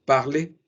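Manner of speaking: parler said as in French, no R sounded at the end; correct French parler. Shown as a demonstration. Teacher repeats correct parler to the class. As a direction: say parler with a silent final R. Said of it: "así suena".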